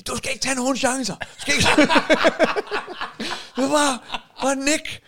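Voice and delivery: hammed-up wife's scolding; mock scolding. Husband retelling his wife's scolding, mock-angry and laughing. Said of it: "der fik jeg fandme skæld ud".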